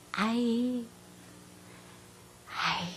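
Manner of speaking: hushed and soft; a gentle hush to settle him; soft calming. Retold or imitated. Wife quietly calming husband.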